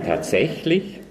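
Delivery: distrustful snail, questioning the claim; a hint of mistrust; suspicious. A narrator's reading. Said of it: "sagte die Schnecke misstrauisch".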